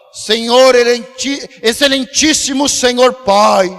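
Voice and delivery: pompous, drawn-out formal address to God; mock religiosity. Preacher mocking people who pray with stiff religiosity, pompous. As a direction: imitate an over-formal pious pray-er. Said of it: "Sabe, uma religiosidade".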